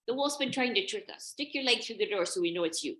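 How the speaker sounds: put-on high, loud children's voices; suspicious little goat kids; wary kids. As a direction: call out the demand through the door. Kids challenge at the door.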